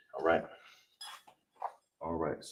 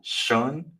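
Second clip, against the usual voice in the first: slow breakdown; 2 semitones higher, slower than usual. Shown as a demonstration. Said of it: "We got the".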